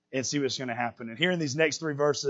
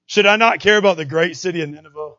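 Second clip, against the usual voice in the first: a hint of God's voice, louder; God questions Jonah, lightly voiced, louder; God speaking; 7 dB louder than usual. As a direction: read it as the Lord asking. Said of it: "This is God speaking again".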